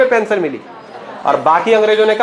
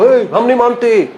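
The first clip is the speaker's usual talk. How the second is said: higher, slower mock yell of defiance; imitated protest shout; 5 semitones higher, 3 dB louder than usual. Stung employee yelling at the strikers, a higher, slower mock yell. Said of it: "पहले एक दो बार चिल्लाया वैसे".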